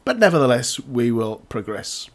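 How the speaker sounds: slightly croaky from a cough. Real, not acted. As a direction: talk through a croaky, coughy throat. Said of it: "please excuse the slightly croaky voice".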